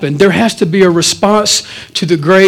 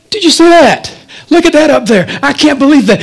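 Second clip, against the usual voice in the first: fake distraction; 6 semitones higher, faster than usual. Pretending to look at something.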